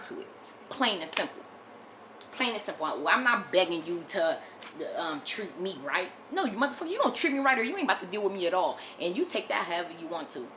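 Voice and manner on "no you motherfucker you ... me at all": fast, heated, defiant; angry outburst. Real, not acted. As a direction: snap back fast and furious.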